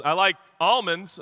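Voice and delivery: "almonds" as AHL-monds, open first vowel; friend's pronunciation. Acted. Dad replaying the friend's reply, "almonds" as AHL-monds. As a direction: loudly say "almonds" with an AH. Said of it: "the guy who says".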